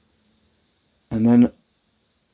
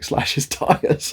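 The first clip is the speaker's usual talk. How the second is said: mum's suggestion; 6 semitones higher, much slower than usual. Retold or imitated. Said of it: "my mum was like".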